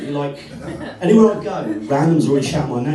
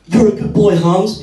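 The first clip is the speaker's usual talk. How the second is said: praising the dog; 5 semitones higher, 6 dB louder, slower than usual. Retold or imitated. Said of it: "I'd be like".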